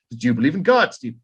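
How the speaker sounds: lightly faked British accent; a hint of a British caller; bad British accent. Kubrick pressing King, light British accent. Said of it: "terrible British accent".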